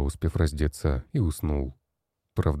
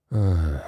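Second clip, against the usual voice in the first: tired groan. A narrator's reading. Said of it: "застонал от усталости и раздражения".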